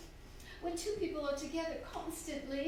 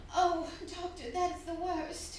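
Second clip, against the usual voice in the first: drawn-out, louder anguish; slow dismayed cry; 4 semitones higher, 5 dB louder, slower than usual. Acted. Widow crying out to the doctor in slow dismay. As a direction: let the dread stretch out.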